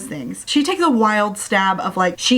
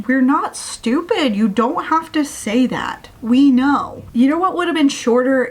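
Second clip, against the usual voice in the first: exasperated, slightly higher and emphatic; 4 semitones higher than usual. Real, not acted. Reader objects to the author repeating who died, exasperated. Complains to the author about repetition.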